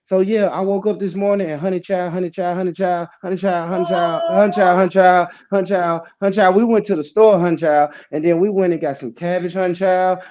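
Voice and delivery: imitating stutter word. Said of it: "her stutter word was honey child".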